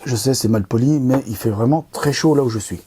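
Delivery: talking between sips of water; while sipping a drink. Real, not acted. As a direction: speak right after a sip. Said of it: "je bois encore une goutte".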